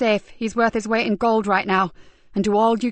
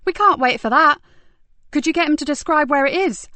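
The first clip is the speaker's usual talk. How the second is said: urgent frustration; 3 semitones higher, 4 dB louder than usual. Acted.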